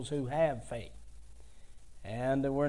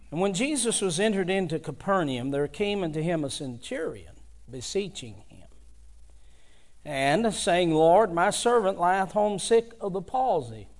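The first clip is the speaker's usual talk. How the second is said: a measured, elevated King James reading, a bit higher; formal Bible reading voice; scripture reading; 3 semitones higher than usual. Acted. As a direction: read the verse to the congregation with weight. Reads the scripture text aloud.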